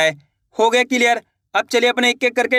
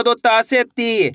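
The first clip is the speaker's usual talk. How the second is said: very slow, with ती drawn out; slow demo; much slower than usual. Shown as a demonstration. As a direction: model it slowly and clearly. Teacher demonstrating syllable change. (धीरे, ती को लंबा करके)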